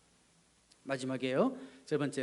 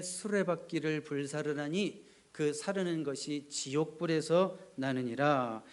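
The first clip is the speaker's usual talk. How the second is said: slow, solemn reading of Bible verse; scripture reading; slower than usual. Acted. Preacher reading James to the congregation, slow and solemn. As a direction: read the verse slowly and gravely.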